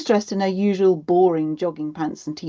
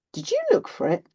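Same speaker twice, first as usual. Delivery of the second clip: higher-pitched parental question; questioning mum; 12 semitones higher than usual. A narrator's reading.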